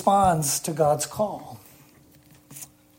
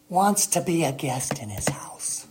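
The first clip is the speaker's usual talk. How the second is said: whispered, softer, in wonder; awed whisper; 2 semitones lower, 5 dB quieter than usual. Real, not acted. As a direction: hush it as if marvelling at grace. Sermon, awed aside.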